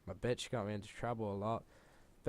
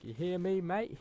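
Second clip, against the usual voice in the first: angry teacher; 8 semitones higher than usual. Retold or imitated. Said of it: "then Mister Curtis was like".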